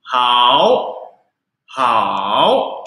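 "Hao" drawn out on a dipping, rising third tone. Shown as a demonstration. Teacher showing that hao also has tone three, third tone. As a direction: give "hao" its full third-tone dip and rise. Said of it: "juga ada tiga".

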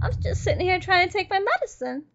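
soft, wounded grumble; subdued complaint. Real, not acted. Gamer grumbling about interrupted healing, subdued complaint. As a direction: complain softly after the outburst. Sulking complaint right after being attacked.

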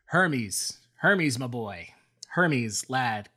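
calling out. Acted. Zeus calling Hermes over for help, loud and fond. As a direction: summon the boy fondly.

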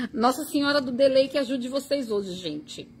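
laughing through a mock prayer; laughing as she jokes to the viewers. Real, not acted. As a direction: giggle through the joke about the delay. Joking prayer to the delay.

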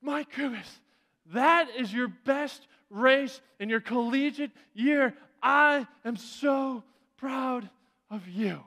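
slow, lightly voiced proud praise; slow it down with pride; a hint of a proud coach. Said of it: "he said".

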